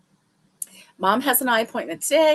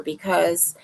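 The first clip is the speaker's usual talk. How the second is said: whisper; 3 semitones lower than usual. Real, not acted. Whispered aside to camera.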